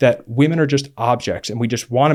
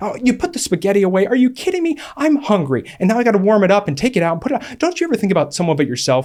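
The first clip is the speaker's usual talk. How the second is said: put-on furious, paranoid rant, high and swooping; 6 semitones higher than usual. Recalling looking for reasons to get mad at her: retelling own angry outburst. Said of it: "And I was just angry".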